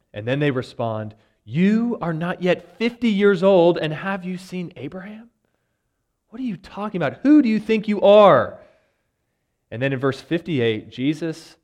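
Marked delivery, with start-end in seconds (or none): 1.4-8.6 higher, incredulous challenge; indignant crowd. Acted. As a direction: voice the crowd's disbelief, pitched up.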